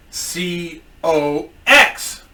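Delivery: letter by letter, long gaps between; drawn-out acted spelling while writing; slow spelling. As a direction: spell it out very deliberately. Boss spells name slowly.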